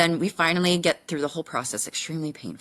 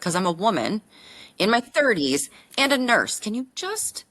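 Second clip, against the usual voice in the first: exasperated retort; 7 semitones higher, 4 dB louder than usual. Retold or imitated. Patient answering her doctor on the phone, exasperated and pleading. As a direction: act out the fed-up reply to the doctor.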